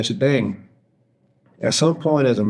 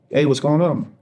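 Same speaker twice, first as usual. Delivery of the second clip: higher-pitched, easy phone hello; raised pitch on a casual question; casual greeting; 5 semitones higher than usual. Retold or imitated. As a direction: retell a light, unsuspecting check-in. Casual phone greeting, before crying heard.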